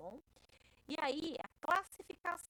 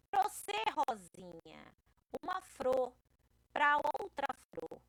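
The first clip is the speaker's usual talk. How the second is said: lightly voiced Chico Bento; 3 semitones higher, 4 dB louder than usual. Teacher reads Chico's flower offer to the class, lightly acted. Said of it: "ele disse que ela era uma flor".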